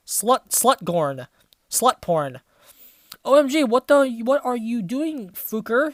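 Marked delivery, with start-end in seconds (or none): 3.2-5.9 mock angry shout. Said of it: "he shouted angrily".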